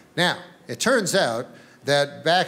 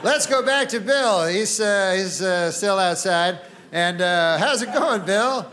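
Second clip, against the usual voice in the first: newsman; slower than usual. Retold or imitated. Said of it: "So they go".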